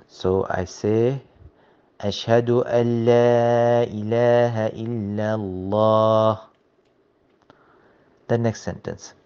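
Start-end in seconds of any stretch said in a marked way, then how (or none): 2.0-6.4 recite, merging the noon away; noon skipped. Shown as a demonstration. Teacher shows skipping the noon, recited. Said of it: "I skipped the noon".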